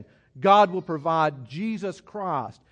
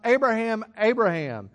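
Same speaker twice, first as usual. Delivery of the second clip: calling out; 4 semitones higher, 3 dB louder than usual. Pretend. God calling Abraham's name.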